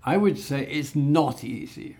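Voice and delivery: key words stressed in "it's not easy", with weight on "not"; deliberate word stress. Shown as a demonstration. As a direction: lean on "not" to make the point. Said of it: "I'm stressing the words I want to emphasize".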